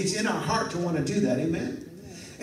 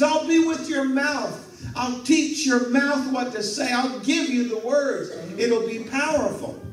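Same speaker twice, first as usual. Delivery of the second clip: voice of God; 8 semitones higher, 4 dB louder than usual. Acted. God promises Moses.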